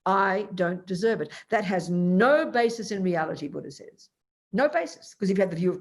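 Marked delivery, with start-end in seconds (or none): 0.1-1.3 slow, indignant mock anger; acted anger. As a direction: spell out the grievance slowly, as if wronged. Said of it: "Anger is".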